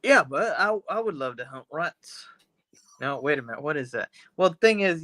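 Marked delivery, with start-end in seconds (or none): 0.0-2.3 shaky attempt at British English; bad British accent. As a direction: try a British accent and half miss it. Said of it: "I can't do a British accent".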